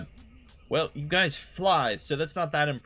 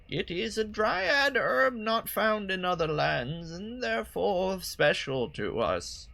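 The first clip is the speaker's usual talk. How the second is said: put-on old lady voice; 5 semitones higher than usual. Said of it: "old lady voice for her".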